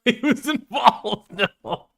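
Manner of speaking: high, drawn-out repeat through laughter; laughing disbelief. Real, not acted. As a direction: crack up while echoing it incredulously. Host cracks up repeating quote.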